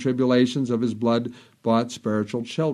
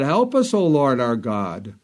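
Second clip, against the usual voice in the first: crying out to God. Retold or imitated. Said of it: "He cries out to God".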